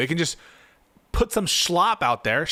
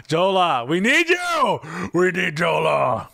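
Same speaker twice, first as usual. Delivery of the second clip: pleading shout; 2 semitones higher, 4 dB louder, slower than usual. Real, not acted. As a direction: shout it out begging him not to leave. Calling a chatter to stay.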